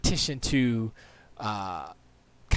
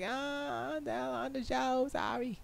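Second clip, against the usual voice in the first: mock apology; 12 semitones higher, 9 dB quieter, slower than usual. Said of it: "I was like".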